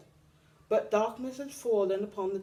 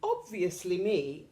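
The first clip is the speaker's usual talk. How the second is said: very high, loud showy hippo; proud hippo announcement; announced; 10 semitones higher, 7 dB louder than usual. A narrator's reading. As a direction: announce it grandly. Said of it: "announced the hippo".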